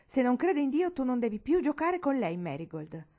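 loud, high, angry prohibition; Uncle Jarvis, thundering. A narrator's reading. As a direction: lay down the law furiously. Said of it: "tuonò di bel nuovo lo zio Jarvis". (tuonando, perentorio)

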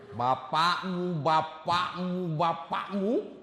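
mocking wife, drawn out. Wife mocking husband's request.

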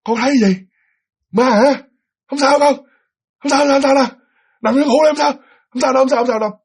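high-pitched, repeated soothing patter; reassuring father. Acted. Father calming child after a nightmare, reassuring.

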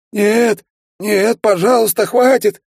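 high, loud desperate begging; plaintive moan. A narrator's reading. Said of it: "жалобно простонал Кичендаш". (высокая громкая мольба)

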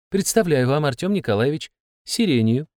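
brisk, official announcement; businesslike. Acted. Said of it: "с деловым видом объявила кураторша".

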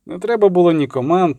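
usual speaking voice

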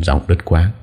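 usual speaking voice

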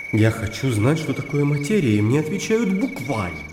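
impassioned plea, rising and falling in pitch; frustrated seeker demanding a real answer; heated argument. Acted. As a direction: argue with indignant fervour. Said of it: "продолжал горячиться".

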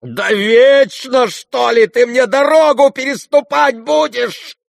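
high, loud, slow enraged roar. A narrator's reading. Ganya raging at the prince before striking him, roaring. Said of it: "заревел Ганя".

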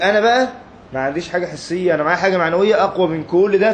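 high and loud, proud declaration; emphatic paraphrase. Retold or imitated. Preacher voices the Prophet's claim to students, high and emphatic.

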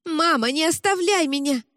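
high, pleading cry; girl begs mother not to abandon her; desperate plea. Acted.

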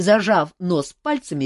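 ordinary delivery

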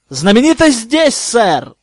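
high, loud defiant answer; cheeky reply. Acted. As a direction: fire back with cheek. Harry answers back cheekily.

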